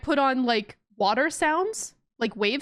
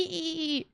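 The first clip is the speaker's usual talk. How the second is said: whale squeaks; 5 semitones higher, 7 dB quieter than usual. Acted. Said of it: "in the distance you hear ee".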